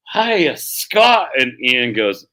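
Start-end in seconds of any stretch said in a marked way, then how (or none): 0.1-1.3 slow, higher mock Irish accent; drawn-out put-on Irish lilt, spotting a Scot. Old Irishman greeting the Scot, slow mock Irish accent. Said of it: "the old Irish goes".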